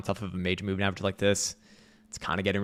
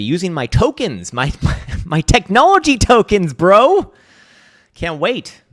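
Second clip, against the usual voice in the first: much higher and louder hammed-up squeal; mock tech bro squeal; 9 semitones higher, 10 dB louder than usual. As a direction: shriek like an overexcited crypto bro. Mocking tech-bro hype.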